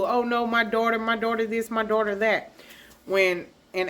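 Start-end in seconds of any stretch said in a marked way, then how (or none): 0.0-2.5 higher, put-on lament; mocking sing-out of false sorrow; mock boo-hoo. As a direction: imitate a fake-grieving mother wailing lightly. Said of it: "She's gonna boo-hoo".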